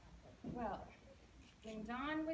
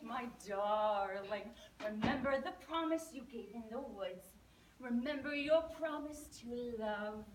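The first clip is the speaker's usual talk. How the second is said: croaky frog; 5 dB louder than usual. Acted. Frog pleading outside the princess's door, loud croaky sing-song. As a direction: croak and croon each plea at the door. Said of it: "he looked up at her ... and he said".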